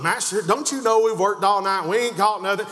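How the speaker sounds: indignant protest rising in pitch; exasperated back-talk, pitch jumping on the last question; with an attitude. Acted. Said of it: "saying it with an attitude".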